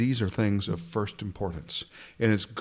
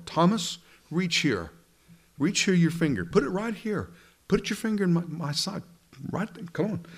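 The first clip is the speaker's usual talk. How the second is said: gently acted Jesus; 6 semitones higher than usual. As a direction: invite Thomas to touch the wound. Jesus voiced inviting Thomas.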